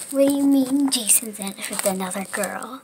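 loud shocked outburst, rising on what; shocked mom. Acted. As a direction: blurt it out in disbelief. Mom hears boyfriend cheated.

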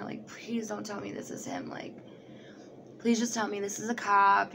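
whispered pleading to herself; a frightened whisper of inner dread; scared whisper. Retold or imitated. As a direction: hush it, praying it isn't him. Scared inner plea in Walmart.

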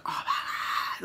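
whispered in awe; breathless oh my God. Retold or imitated. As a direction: breathe it out, stunned. Awed reaction, breathless.

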